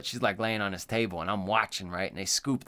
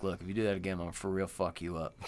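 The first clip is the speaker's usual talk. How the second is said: pretend threatening surgeon; 4 semitones lower, 6 dB quieter, faster than usual. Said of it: "He's just like".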